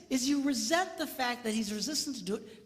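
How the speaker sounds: normal talking voice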